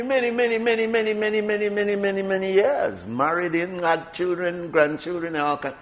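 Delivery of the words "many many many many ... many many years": a string of many, many, easing down. Real, not acted. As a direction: stretch the many-many to show how long. Stressing how long he lived there.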